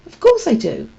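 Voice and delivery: sincere. Acted. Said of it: "Holly sounded very sincere".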